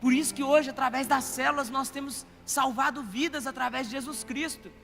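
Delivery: swelling pulpit voice, building to each amém; impassioned preaching. Acted. Pastor urging the congregation to love, in full preaching voice.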